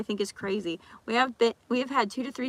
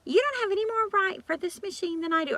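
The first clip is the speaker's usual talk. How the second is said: mock attitude; 9 semitones higher than usual. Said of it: "they get an attitude".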